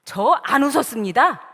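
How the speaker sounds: loud, startled denial; flustered denial. Acted. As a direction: blurt out an acted lie in alarm. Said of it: "너무나 놀라고 당황을". (당황해서 잡아떼듯)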